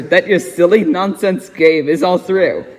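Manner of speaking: ordinary delivery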